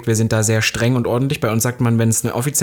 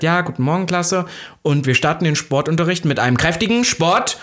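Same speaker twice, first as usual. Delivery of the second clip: a hint of a brisk gym teacher, higher; 4 semitones higher than usual. Imitating the gym teacher greeting the class, lightly higher. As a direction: announce the class start like a drill teacher. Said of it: "Frau Schmidt hat dann gesagt".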